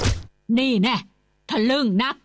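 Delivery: loud, punchy scolding; angry jab. A narrator's reading. Uncle uppercutting his nephew, angry. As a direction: throw the words with the punch.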